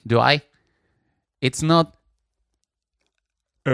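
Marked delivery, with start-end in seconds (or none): 3.6-3.7 held "eh" in an unnatural voice; exaggerated drawn-out vowel; put-on wrong voice. Shown as a demonstration. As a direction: demonstrate a voice that isn't your own. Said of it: "I don't speak with this voice".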